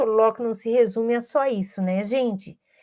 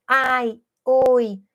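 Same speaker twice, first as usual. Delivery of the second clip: ai falling, oi rising a touch louder; intonation demo; 3 dB louder than usual. Shown as a demonstration. Teacher showing rising and falling tunes to parents, played up. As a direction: model ai with a falling tune and oi with a rising tune. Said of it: "entonação crescente como entonação decrescente".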